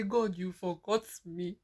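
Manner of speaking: tearful complaint rising to a high cry; crying to God. Retold or imitated. She cries to God in the toilet, breaking into sobs. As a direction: sob out the accusation at God. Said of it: "I say".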